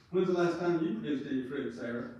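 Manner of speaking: playful jab said in a light, nice tone; joking tease. Retold or imitated. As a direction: tease her gently, as a joke. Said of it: "I said this jokingly".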